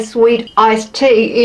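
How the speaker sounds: attempted American accent on "sweet iced tea". Shown as a demonstration. Vlogger showing how she says it, in an American accent. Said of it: "in an American accent".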